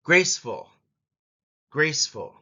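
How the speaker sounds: "Graceful" starting with a big bang; stress on first syllable. Shown as a demonstration. Teacher modelling a word to repeat, strong first syllable. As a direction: punch "Grace", let "ful" drop. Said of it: "starts with a big bang".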